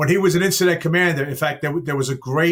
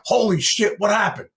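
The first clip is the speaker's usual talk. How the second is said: mildly startled, higher-pitched mock surprise; startled reaction; 5 semitones higher than usual. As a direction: voice the crew's stunned reaction, lightly acted. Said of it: "everybody would probably stop and go".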